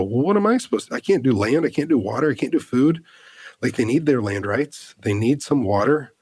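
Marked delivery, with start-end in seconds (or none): 0.0-3.0 high, pleading and overwhelmed; helpless plea. Retold or imitated. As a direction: throw up your hands, voice up high. Retelling her helpless plea.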